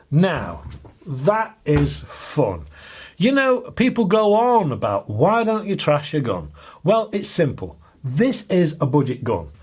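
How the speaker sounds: measured, deliberate scripted read with lifted phrases; studio review presenter. Acted. Reviewer sums up the budget gun for viewers, studio presenter read. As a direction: present it as a rounded-up product verdict.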